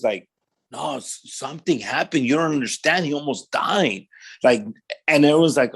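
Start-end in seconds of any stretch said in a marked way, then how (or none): 0.7-4.1 retold plea to be understood, slightly raised; insistent plea. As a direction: imitate trying to convince doubting friends. Retold pleading with dismissive friends while crying.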